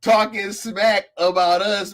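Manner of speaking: high, stunned bro what; mock disbelief, voice way up; incredulous. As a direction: pitch jumps up in disbelief. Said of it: "And I'm like".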